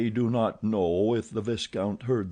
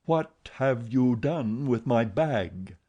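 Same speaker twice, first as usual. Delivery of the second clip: slow grating menace from the hidden voice; grated metallic voice; 2 semitones higher, slower than usual. Acted. Phantom demanding his bag, grated and metallic. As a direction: grind each syllable out like metal. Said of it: "grated out these metallic syllables".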